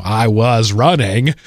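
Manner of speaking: lightly imitated film character, slow; a hint of a slow-talking movie character; famous movie line. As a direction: stretch out each word like a well-known quote. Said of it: "recite lines they're famous for".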